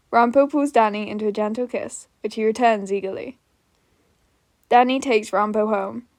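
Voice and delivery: even podfic narration voice; steady storyteller reading a joke fic aloud; story narration. A narrator's reading. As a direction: read it like an audiobook narrator. Reads the fic's narration.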